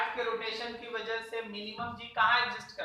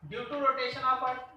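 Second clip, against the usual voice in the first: slow and clear; much slower than usual. Shown as a demonstration. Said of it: "क्या हम लोग ये कह सकते हैं".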